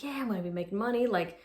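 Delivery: a light, eager retelling of past excitement, quick at first and then slowing; imitating her naive younger self; lightly excited inner voice; mock excited. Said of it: "I was excited".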